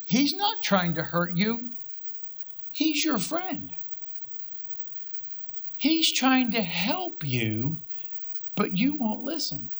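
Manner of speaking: gentle rebuke. Acted. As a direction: let each phrase fall gently, unhurried. Holy Spirit speaks to pastor.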